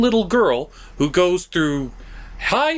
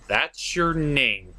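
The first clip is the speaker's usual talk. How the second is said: slow mock repeat; 5 semitones lower, much slower than usual. Slowly mocking the elf's name.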